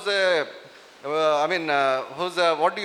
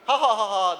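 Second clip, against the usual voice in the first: mocking laugh demo. Shown as a demonstration. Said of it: "They all laugh at him".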